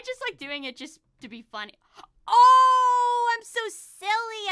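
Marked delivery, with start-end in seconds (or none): 2.3-4.5 high, loud character voice; Fan voice. Acted. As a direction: pitch up, playful and loud. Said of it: "sort of try to do fan".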